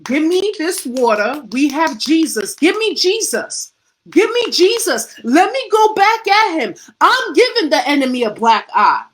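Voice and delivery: a fighter roaring back into the ring, hungry for Jesus; building preacher's cry from strong to shouted; fired-up boxer. Pretend. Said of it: "Nah, he's like".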